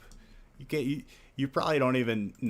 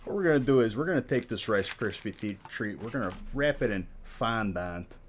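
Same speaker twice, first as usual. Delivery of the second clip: cake boss impression; 2 semitones higher than usual. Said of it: "you sound like a cartoon character".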